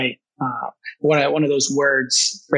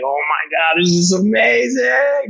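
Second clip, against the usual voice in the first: amazed; 5 semitones higher than usual. Retold or imitated. Awed at the family dinner.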